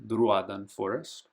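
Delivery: "Druadan" with the accented a held long; long vowel in Druadan. Shown as a demonstration. Reading out Tolkien map names, stretching the accented vowel. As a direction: lengthen the marked a of "Druadan". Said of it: "you make that vowel a little longer".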